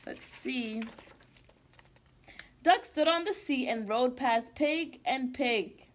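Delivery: put-on lively storybook read-aloud for kids; reading to children. Teacher reading a picture book to kids, bright and lively. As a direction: read it like circle time with little ones.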